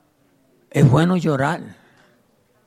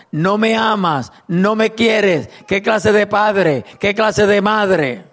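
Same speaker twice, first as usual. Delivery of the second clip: put-on whiny child pleading; 3 semitones higher, slower than usual. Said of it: "usábamos la astucia de llorar".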